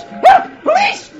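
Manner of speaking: very high screaming cry for help; shrieked alarm; woman yells. Acted. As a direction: scream for the police. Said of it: "woman yells".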